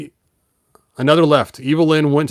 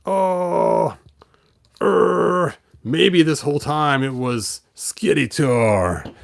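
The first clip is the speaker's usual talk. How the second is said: lightly voiced figure. Figure voiced complaining about fatherhood.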